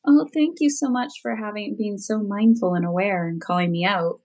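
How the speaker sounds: put-on thanks to the kid; mock gratitude. Mother to teen who called her out, mock gratitude.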